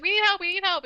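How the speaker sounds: mock-frantic call to the cop, pitched high; retold panicked plea. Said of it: "She's, like, screaming".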